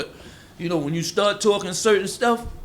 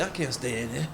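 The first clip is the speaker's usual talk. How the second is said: a hint of an uneasy outsider; mock complaint; 2 semitones lower, 5 dB quieter than usual. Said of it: "they say".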